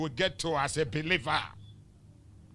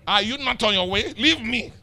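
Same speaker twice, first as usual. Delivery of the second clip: louder, faster, laughing comeback; laughing mock retort; 4 semitones higher, 6 dB louder than usual. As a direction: brush them off with a laugh. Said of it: "I say".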